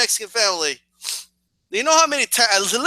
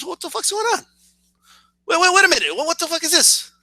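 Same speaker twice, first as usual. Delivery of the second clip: indignant high; 8 semitones higher than usual. Retold or imitated. Outraged when scene cuts away.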